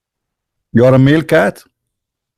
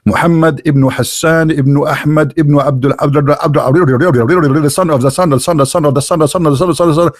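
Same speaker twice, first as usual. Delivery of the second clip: long train of names; 2 semitones higher than usual. Retold or imitated. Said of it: "our Arabian names is like a train".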